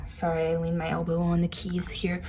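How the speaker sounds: quick whispered apology under the breath; whispered aside. Real, not acted. Apologetic aside while playing.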